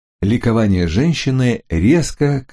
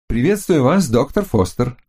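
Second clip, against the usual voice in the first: higher, friendly female voice; woman's voice; 5 semitones higher than usual. Acted. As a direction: greet him sweetly. Florinda greets the hunter.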